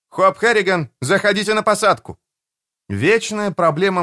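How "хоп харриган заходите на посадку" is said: higher dispatcher voice over radio; control tower radio. A narrator's reading. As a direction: answer from the tower. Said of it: "Пауза. Затем".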